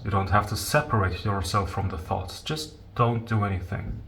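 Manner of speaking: soft, unhurried meditation guidance with long pauses; guided meditation. Real, not acted. Teacher guiding listeners to leave their thoughts alone, calm meditation voice. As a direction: gently guide listeners into letting go.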